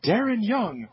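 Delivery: drawn-out, rising ring announcer call. Retold or imitated. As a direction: boom it out like a wrestling announcer. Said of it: "So Lillian Garcia, uh, says".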